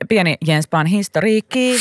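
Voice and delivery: "historiikki" high with a rising end; playful announcement. Real, not acted. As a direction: present it like a little headline, lifted pitch. Playful mini-headline, then echoed low.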